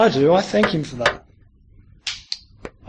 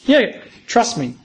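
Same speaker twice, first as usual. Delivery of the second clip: God reassuring; 3 semitones higher, slower than usual. Acted. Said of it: "God says".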